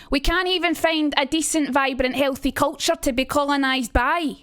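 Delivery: Trainspotting monologue in broad Edinburgh Scots; Edinburgh accent. Acted. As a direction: recite it in a harsh, pronounced Edinburgh accent. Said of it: "trying to think of the Edinburgh accent".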